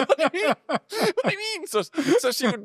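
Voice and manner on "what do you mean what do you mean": high, repeated indignant squawk; mock outrage. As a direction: imitate someone beside himself, half laughing. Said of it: "that angered him so much".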